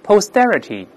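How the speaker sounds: posterity with the t after s voiced like a d. Shown as a demonstration. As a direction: say "posterity" with a d-like t in the stressed syllable. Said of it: "中间要浊化". (posterity中s后重读的t浊化读成d)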